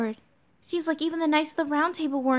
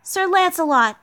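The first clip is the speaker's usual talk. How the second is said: higher-pitched acted fury; high, forceful heroine confronting a knight; indignant knight heroine; 5 semitones higher, 6 dB louder than usual. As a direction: raise the voice in righteous anger. Voices furious Mashu confronting Lancelot.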